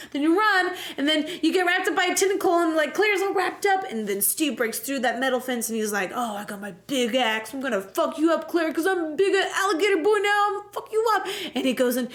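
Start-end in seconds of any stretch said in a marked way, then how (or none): 6.1-11.3 mock monster threat. Alligator Steve threatening Claire, rising mock menace.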